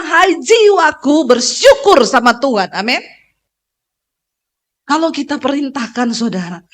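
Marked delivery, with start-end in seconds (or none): 0.0-2.7 speaking to your soul. Shown as a demonstration.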